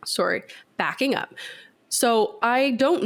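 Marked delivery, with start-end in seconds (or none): 0.1-1.3 a hushed, unvoiced quick correction; whispered aside. Real, not acted. Podcaster corrects herself mid-story, under her breath, whispered. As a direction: drop to a whisper to fix yourself.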